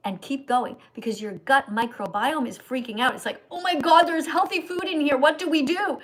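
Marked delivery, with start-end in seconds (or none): 3.5-6.0 voicing a startled gut, higher and louder; the gut panics at healthy food in a squealing shocked voice. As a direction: gasp it out like a panicked stomach. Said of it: "They're so shocked and so surprised".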